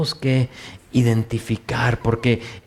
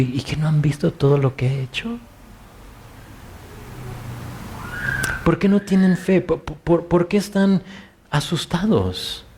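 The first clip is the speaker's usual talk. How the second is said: compassionate Jesus; 2 semitones higher than usual. Retold or imitated. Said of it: "Casi como que lo escucho diciendo".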